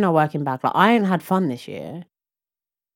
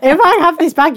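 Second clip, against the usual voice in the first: laughing; 12 semitones higher, 7 dB louder than usual. Real, not acted. Laughing while joking.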